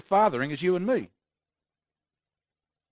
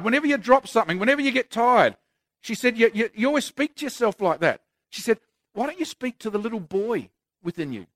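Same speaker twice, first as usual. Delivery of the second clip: higher, gently imitating his wife, softening as it goes; 4 semitones higher than usual. Preacher voicing his wife's rebuke.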